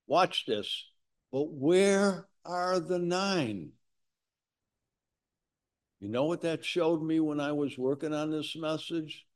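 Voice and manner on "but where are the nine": slow, higher, solemn question; Jesus asking. Acted. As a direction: voice Jesus gently probing, slowly.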